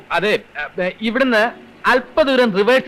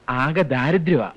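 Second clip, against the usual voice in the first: pitiful sob story; 5 semitones lower than usual. Acted. Job seeker playing for the clerk's sympathy, pitiful lament. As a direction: plead poverty with long heavy pauses.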